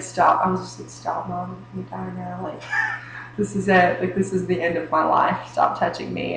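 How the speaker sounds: faint breathless plea, fading out; weak choked whisper. Retold or imitated. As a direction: barely get the words out, choking. Weak choking plea retold.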